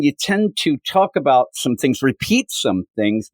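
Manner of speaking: talking through a swollen lip. Real, not acted. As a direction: speak around a split, swollen lip. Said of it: "I am struggling to talk still".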